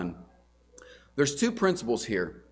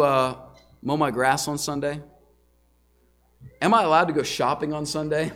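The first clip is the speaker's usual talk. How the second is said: permissive asking. Retold or imitated. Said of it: "phrasing the question in a permissive way".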